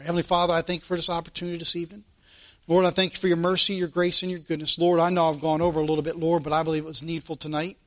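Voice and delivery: quick, hushed prayer to the Father; closing prayer. Acted. Preacher closing the service in prayer, hushed and fast. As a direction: rush through thanks, head bowed.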